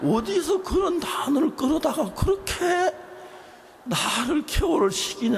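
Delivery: high, loud exasperated outcry; husband teasingly yelling at his clever wife; mock exasperated shout. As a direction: throw up your hands at her words.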